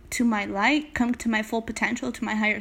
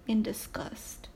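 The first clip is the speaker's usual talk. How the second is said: whispered aside; 2 semitones lower, 9 dB quieter than usual. Retold or imitated. Whispered detail in retelling.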